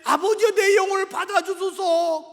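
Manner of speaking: high, loud plea to the Father; acted full-voiced dying prayer; loud crying prayer. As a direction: cry it out as a last prayer. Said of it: "크게 소리내어 기도하고 운명하시잖아요".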